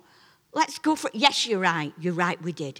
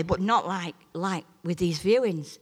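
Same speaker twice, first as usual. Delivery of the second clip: normal talking voice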